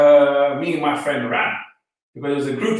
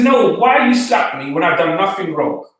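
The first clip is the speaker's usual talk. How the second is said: retold anger; 3 dB louder than usual. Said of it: "I got angry".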